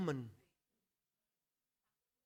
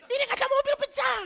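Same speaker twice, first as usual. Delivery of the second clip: high, loud laughing protest to his wife; amused exclamation; 5 dB louder than usual. Retold or imitated. Husband protesting to his wife Vivi over the broken car window, high and loud. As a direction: cry out in disbelief, half laughing. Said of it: "langsung gue ketawa".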